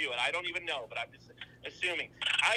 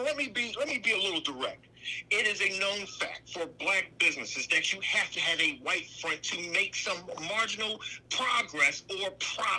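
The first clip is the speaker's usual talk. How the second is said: loud, forceful yelling; 3 semitones higher, 4 dB louder than usual. Making a point to another speaker on a call: yelling. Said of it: "you don't have to yell".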